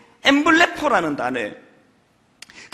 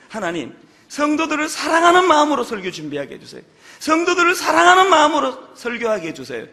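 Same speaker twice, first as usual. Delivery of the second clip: earnest prayer; 5 semitones higher, 3 dB louder than usual. Retold or imitated.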